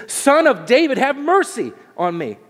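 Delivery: high, loud plea that falls away; imitated desperate shout for mercy. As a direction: cry out as if life depended on it. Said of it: "He cries out even louder".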